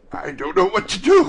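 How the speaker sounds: high, loud, giddy exclamation; overjoyed cry. A narrator's reading. Scrooge laughing and crying in the same breath, overjoyed. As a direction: cry it out, overwhelmed with joy. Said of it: "cried Scrooge, laughing and crying in the same breath".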